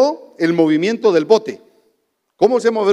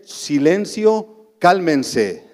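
Silencio drawn out very slowly, calm and gentle; sweet authority; much slower than usual. Acted. Jesus calming the waters, slow gentle authority. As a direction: speak to the storm with gentle authority. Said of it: "una dulce autoridad divina".

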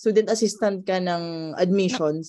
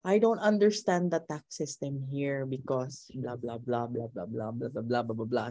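complaining; 6 semitones lower, 7 dB quieter than usual. Retold or imitated. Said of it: "nagrereklamo siya".

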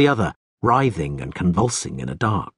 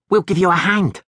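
higher, tense threatening line; hissed threat; 10 semitones higher, 4 dB louder than usual. Acted. Thug threatens the stranger, tense sneer. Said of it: "the pockmarked man hissed".

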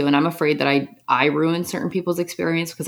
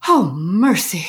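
high put-on old-lady sigh, a little louder; sighing sauna lady; 4 semitones higher, 4 dB louder, much slower than usual. Friend mimics the sighing lady in the sauna, high and moaning. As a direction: moan it like a weary lady settling in. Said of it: "and she'll walk in and she just goes".

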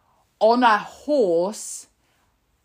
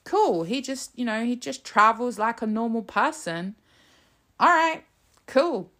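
higher, breezy shrug of a reply; mock unbothered; 4 semitones higher than usual. Ordinary people reacting to Starmer's Ryanair flight, mock-casual. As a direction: toss it off like it's no big deal. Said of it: "they were like".

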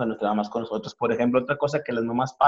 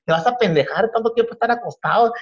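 higher-pitched scolding mom, quick in places; nagging mom; 5 semitones higher than usual. Retold or imitated. Comedian imitating his mom scolding a son who never goes out. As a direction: nag your son like a fed-up Mexican mom. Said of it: "¿qué te dice?".

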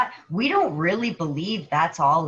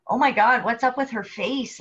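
mock shock; 5 semitones higher, 4 dB louder than usual. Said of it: "they're like".

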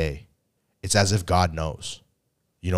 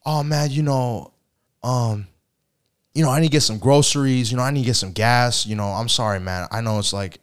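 excuse-making friend; 3 semitones higher than usual. Retold or imitated. Friend explaining groceries and gas, hurried excuses. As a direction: gabble the excuses quickly. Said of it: "And he goes".

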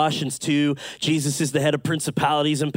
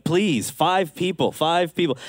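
drawn-out, mildly pleading appeal; 2 semitones higher, slower than usual. Retold or imitated. Preacher asking a silent crowd for five people, pleading. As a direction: beg the silent room for volunteers.

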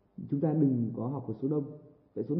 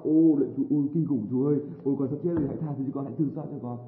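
tearful plea; 4 dB louder than usual. Retold or imitated. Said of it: "Cô sẽ khóc".

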